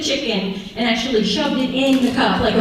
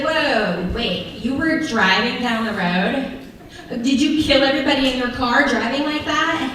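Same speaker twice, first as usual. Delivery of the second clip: mock shocked friend. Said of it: "she's like".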